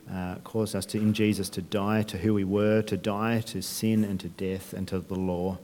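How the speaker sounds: hushed, reverent closing prayer. Acted. Pastor praying over the church after the sermon, reverent. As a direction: pray gently for the congregation.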